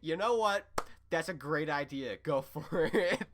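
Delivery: lightly voiced Ruby egging him on, cracking up; Ruby mock agreeing. Ruby cheers Steven's proposal, lightly voiced and laughing. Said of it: "And, and Ruby says".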